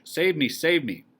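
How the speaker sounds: slow, loud, high pleading cry; terrified scream. A narrator's reading. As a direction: drag out the plea in terror. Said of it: "She screams and screams".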